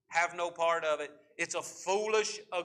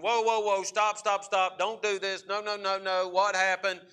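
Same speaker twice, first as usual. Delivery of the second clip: parent breaking up a fight; 2 semitones higher than usual. Retold or imitated.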